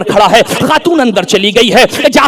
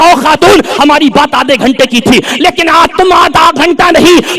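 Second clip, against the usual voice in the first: raised, scolding retold demand; angry guide; 3 semitones higher than usual. Guide scolding the woman for staying eight hours, angry. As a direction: act out an annoyed guide demanding an explanation. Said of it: "غصے میں کہنے لگا".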